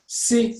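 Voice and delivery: SI said alone, high and crisp, as one beat; isolated syllable. Shown as a demonstration. Teacher counts the first syllable, SI on its own. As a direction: lift SI out as a separate syllable. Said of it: "one syllable".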